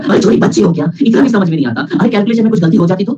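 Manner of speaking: put-on teasing a confused student as a little girl; mock scolding. Teacher teasing a confused student, mock scolding. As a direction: scold her like a baby who can't follow.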